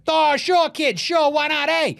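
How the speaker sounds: high-pitched put-on voice, breezily agreeing; agreeable reply, acted. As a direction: accept the offer in a high, hammed-up voice. Acted reply from Drew Peterson.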